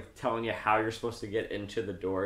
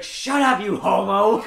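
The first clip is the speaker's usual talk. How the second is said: mock yell; 6 semitones higher, 8 dB louder, slower than usual. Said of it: "he's like".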